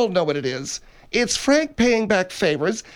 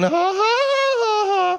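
chipmunk voice; 12 semitones higher, much slower than usual. Shown as a demonstration. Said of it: "like that".

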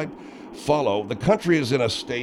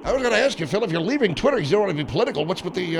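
lightly put-on higher woman's voice; slightly raised character voice; questioning Margaret; 4 semitones higher, faster than usual.

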